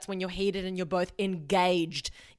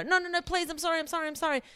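mock pleading apology; 9 semitones higher, faster than usual. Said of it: "she was like".

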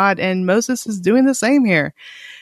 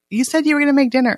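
put-on complaining kid; 6 semitones higher, much faster than usual. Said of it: "It reminds me of my kids".

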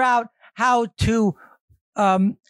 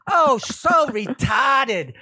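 mock teasing; 2 semitones higher, much slower than usual. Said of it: "they say".

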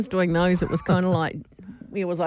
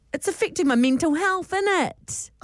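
higher mock British accent; an American slipping into British; 8 semitones higher than usual. Woman telling her boss in a mock British accent. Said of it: "she said".

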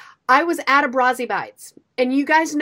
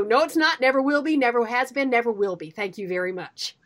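firm refusal. Retold or imitated. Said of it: "I look at them and go".

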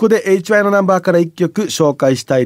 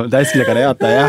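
cool singer impression; 6 semitones lower, faster than usual. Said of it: "世界で一番かっこいいバイバイの言い方".

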